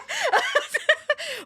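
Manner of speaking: bursting out laughing; a high giggling fit; high laughter. Real, not acted.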